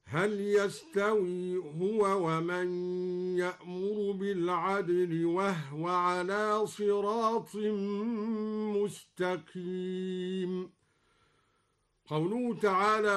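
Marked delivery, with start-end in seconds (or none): 0.1-10.7 slow melodic tajwid chant; measured, drawn-out Quranic chanting; Quran recitation. Shown as a demonstration. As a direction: recite slowly with long-held nasals and vowels.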